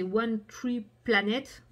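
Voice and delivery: English name with a heavy French accent; bad English accent. Real, not acted. Vlogger naming the tree charity, bad English accent. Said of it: "Mon accent anglais de vache espagnole".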